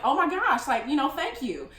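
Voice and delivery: high, loud, gushing thanks; excited thanks. Retold or imitated. Thanking the generous driver, overjoyed and high. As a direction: burst out in grateful surprise.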